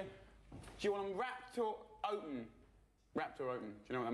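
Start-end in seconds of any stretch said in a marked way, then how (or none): 0.0-2.5 chip shop server. Retold or imitated.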